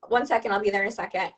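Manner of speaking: quick, offhand parent's reply; brushing off a child. Acted. Busy mom to her child at the playground, hurriedly dismissive. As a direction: put the child off in a hurry.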